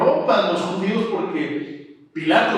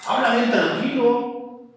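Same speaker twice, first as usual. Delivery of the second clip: lightly voiced Pilate, higher and puzzled; 6 semitones higher than usual. Pilate wondering about the accused, lightly voiced and puzzled. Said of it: "Y él decía".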